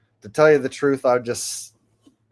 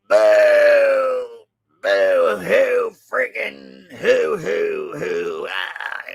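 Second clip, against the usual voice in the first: mock crying; much slower than usual. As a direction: wail like a clown crying over Bernie Sanders. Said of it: "It'll look something like this".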